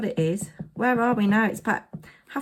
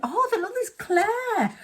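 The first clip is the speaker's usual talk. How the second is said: delighted surprise; 13 semitones higher than usual. Real, not acted. Finding a clipping.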